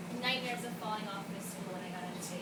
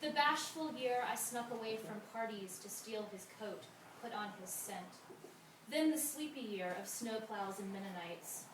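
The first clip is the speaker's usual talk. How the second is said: measured verse with pauses between images; even, deliberate poem recital; poetry reading; 3 dB quieter than usual. Acted. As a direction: read each line as verse, letting the endings fall.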